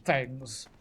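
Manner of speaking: high, slow, hushed British nature narrator; David Attenborough impression. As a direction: marvel at the buzzard like a wildlife documentary voice. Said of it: "David Attenborough".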